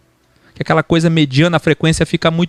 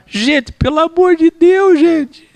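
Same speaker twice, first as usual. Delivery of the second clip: exasperated exclaim; 12 semitones higher, 3 dB louder, slower than usual. Real, not acted. Exasperated at long commute.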